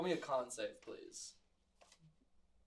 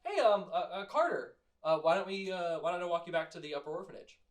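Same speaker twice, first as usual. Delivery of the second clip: put-on timid sloth kid; 2 semitones higher than usual. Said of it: "they look at you and they go".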